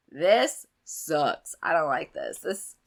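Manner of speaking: croaky, low sick voice; sick hoarse voice. Real, not acted. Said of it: "I sound like a dying frog".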